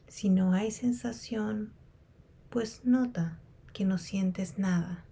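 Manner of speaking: unhurried meditation guide with long pauses; guided meditation. Real, not acted. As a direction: guide them calmly through a body scan, leaving space between phrases. Leads a body scan meditation.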